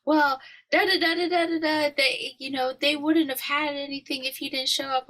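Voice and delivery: lightly mocking older relative; mock grandma voice. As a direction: play the grandma brushing it off. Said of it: "she's like".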